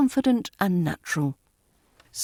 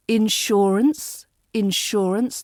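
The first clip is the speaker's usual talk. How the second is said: "insurance" with weight on SHUR, rising at the end; middle-syllable stress; slower than usual. Shown as a demonstration. Teacher modelling the word, middle-syllable stress. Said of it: "the stress falls in the middle".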